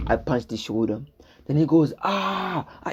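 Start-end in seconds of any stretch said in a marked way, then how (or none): 2.0-2.9 mock scream. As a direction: imitate his scream at half volume. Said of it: "he starts screaming".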